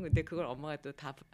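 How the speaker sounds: usual speaking voice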